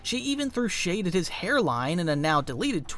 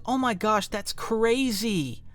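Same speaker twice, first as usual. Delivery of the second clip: imitated YouTuber reaction; 4 semitones higher, slower than usual. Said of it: "watches TikToks and goes".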